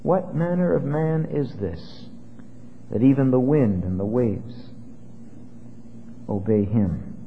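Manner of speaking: unsure, hushed question. Shown as a demonstration. Preacher voicing doubtful disciples, hushed and unsure. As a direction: ask it as if still not sure who he is. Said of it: "they're still not sure".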